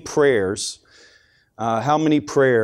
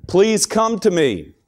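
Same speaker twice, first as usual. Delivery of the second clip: acted plea, high and slow; crying out to God; 5 semitones higher than usual. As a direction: draw out an imploring prayer, pitched up. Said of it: "a mother cried out to the Lord".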